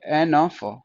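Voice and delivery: slow, separated ए... न... फ; sounded out. Shown as a demonstration. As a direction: teach ए न फ one sound at a time. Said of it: "ओ की sound आ रही है". (ए न फ धीरे-धीरे, तोड़कर)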